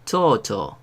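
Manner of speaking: "cho" said clearly twice, as in "chocolate"; careful demonstration of "cho"; Japanese syllable demo. Shown as a demonstration. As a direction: read "cho, cho" slowly for the class. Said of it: "Se lee".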